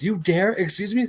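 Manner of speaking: high, loud affronted quote; hammed-up offended outburst; mock indignation. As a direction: act out an outraged "how dare you". Acted outraged grab in comic scene.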